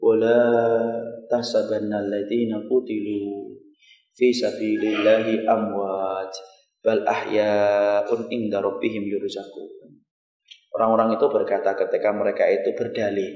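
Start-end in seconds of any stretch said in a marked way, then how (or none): 0.0-9.8 slow, measured chant of the verse; Quran recitation. Acted. Preacher quoting Ali Imran 169 to the congregation in a slow recitation. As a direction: recite the verse slowly and reverently.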